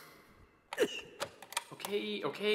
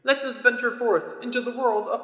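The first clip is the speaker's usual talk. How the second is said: mad scientist; 2 semitones higher than usual. Acted. Scientist's grandiose proclamation.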